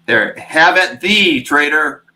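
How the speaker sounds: booming slow Norse warrior voice; viking. Pretend. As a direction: declaim it like a Thor battle cry. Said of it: "you guys definitely missed your calling as, uh, voice, voiceover".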